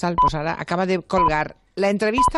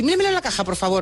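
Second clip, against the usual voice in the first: pushy shopper; 2 semitones higher, faster than usual. Retold or imitated. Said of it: "lo digo en voz alta". (clienta pesada con voz aguda)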